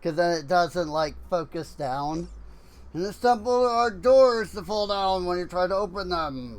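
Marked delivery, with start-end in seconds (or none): 2.9-6.6 side-mouth voice. Acted. Reading out the game's tip about falling doors in a side-mouth voice. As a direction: talk out of the side of your mouth. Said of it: "side mouth talking".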